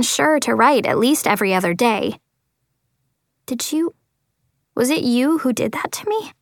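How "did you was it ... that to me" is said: shaky, frightened question; trembling voice. Acted. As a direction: let the voice tremble. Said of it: "in a trembling voice".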